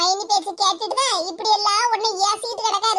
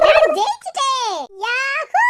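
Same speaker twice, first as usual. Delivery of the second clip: triumphant; slower than usual. Acted. Sister gloats after snatching the biryani. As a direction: savour the win.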